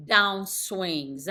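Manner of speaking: DOWNSWINGS with the pitch dropping at the end; confident falling tune on "downswings". Shown as a demonstration. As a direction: let "downswings" fall firmly to a low finish. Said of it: "I'm doing it over and over".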